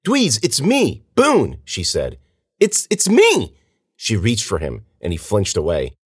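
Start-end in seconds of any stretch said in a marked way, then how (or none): 0.1-1.6 high, urgent insistence; desperate plea. A narrator's reading. Girl insists to friend she is Boone, desperate. 2.6-3.5 high, stammered, louder insistence; stumble, then cry it out urgently; desperate plea. A narrator's reading. Girl reaches for flinching friend, pleading.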